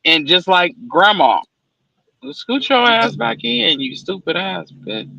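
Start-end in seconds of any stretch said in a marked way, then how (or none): 2.3-5.1 slow, fuming at another driver; road rage. Real, not acted. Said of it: "I have road rage".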